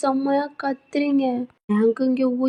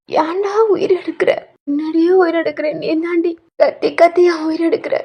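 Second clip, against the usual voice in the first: exasperated scolding; 4 semitones higher than usual. Acted. Waking wife berates husband.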